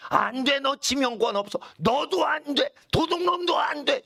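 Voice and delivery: high, forceful rejection, rising in pitch; emphatic refusal. Acted. Preacher refusing sinners lined up for heaven, emphatic refusal. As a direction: turn each one away in a high cry. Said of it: "이거예요".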